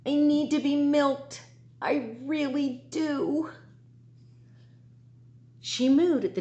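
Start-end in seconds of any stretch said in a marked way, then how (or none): 0.1-3.5 high mooing cow voice; a hungry cow asking to be milked, pitched up. Acted. Teacher reading to her class, as a high hungry cow. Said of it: "a cow begin to moo".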